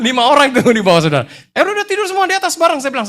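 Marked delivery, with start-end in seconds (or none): 1.6-2.8 high, loud, hurried command; retold shouted order. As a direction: act out hastily ordering everyone upstairs. Ordering colleagues to sleep upstairs.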